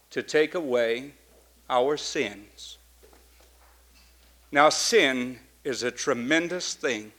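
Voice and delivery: hushed earnest sermon. Acted. Soft reflective preaching.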